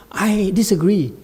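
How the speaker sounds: "I disagree" said through a real laugh; laughing disagreement. Real, not acted. Laughing reply to audience.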